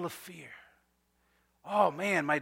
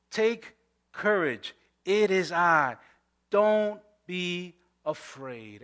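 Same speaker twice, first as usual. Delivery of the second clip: gentle reassurance; 2 semitones lower, much slower than usual. Shown as a demonstration. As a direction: ease it out tenderly. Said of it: "But Jesus immediately said to them".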